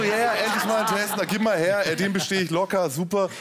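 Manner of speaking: eager, cocky self-parody; gespielte Prahlerei. Retold or imitated. Spielt prahlende Vorfreude auf Test. (großspurig nachgeäfft)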